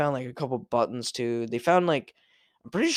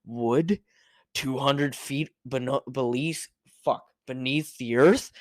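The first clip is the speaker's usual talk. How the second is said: narrator impression. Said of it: "he says it the exact same fucking way".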